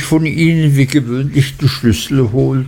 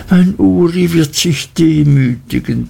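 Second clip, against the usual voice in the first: earnest assurance; 7 semitones higher than usual. A narrator's reading. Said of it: "beteuerte die Mutter".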